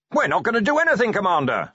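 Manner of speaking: high, quick, hearty denial; jovial. A narrator's reading. Wizard slapping the commander on the back, jovial. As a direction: brush it off with jolly gusto. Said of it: "said Ridcully jovially".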